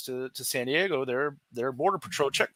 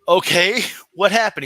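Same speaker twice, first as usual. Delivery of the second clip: loud, raised, puzzled retold question; baffled question; 7 semitones higher, 9 dB louder than usual. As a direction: ask in mock bewilderment. Acts out his baffled question.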